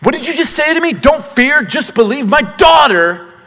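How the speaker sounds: high, loud, outraged rant; furious dad demanding answers; indignant father. Retold or imitated. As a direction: confront Jesus as the grieving father. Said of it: "if I'm Jairus".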